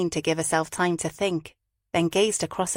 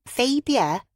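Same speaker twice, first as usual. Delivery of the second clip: exasperated, raised call of Fabia; 6 semitones higher than usual. A narrator's reading.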